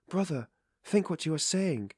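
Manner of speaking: impetuous. A narrator's reading. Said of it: "began impetuously".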